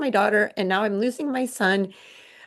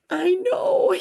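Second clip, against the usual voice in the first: high happy reply; 10 semitones higher than usual. Retold or imitated. Mother's joyful reply.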